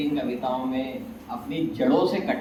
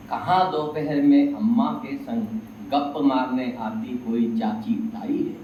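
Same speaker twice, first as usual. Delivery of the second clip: poem recitation. Acted. Poet to audience on lost innocence and neighbours, measured recitation. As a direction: recite wistful verse in even phrases.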